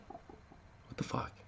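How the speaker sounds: breathless whispered disbelief; stunned whisper. Real, not acted. To himself after her remark, a shocked whisper. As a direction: mouth it in shock, barely voiced.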